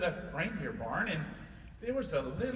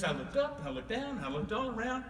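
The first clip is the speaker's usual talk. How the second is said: snowman voice; 5 semitones higher than usual. Acted. Snowman explains the search.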